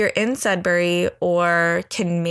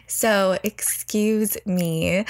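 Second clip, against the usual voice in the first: ordinary talk, nothing marked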